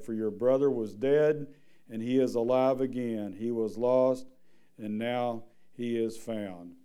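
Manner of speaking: measured, steady reading of scripture. Acted. Preacher reading the parable to the church, measured. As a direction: read the passage plainly to the congregation. Reads the prodigal son scripture.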